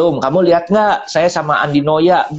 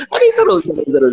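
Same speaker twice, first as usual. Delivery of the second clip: excited; faster than usual. Real, not acted. Excited about the interviews.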